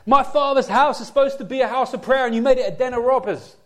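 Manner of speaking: voicing a fiercely rebuking Jesus; fierce rebuke. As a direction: thunder it out in righteous anger. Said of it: "Jesus spoke fiercely".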